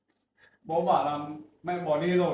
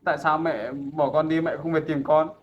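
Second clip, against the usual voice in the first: raised voice, aching and accusing; loud reproach; 8 dB louder than usual. Acted. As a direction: son loudly asking his mother why she left him. Son reproaches mother emotionally.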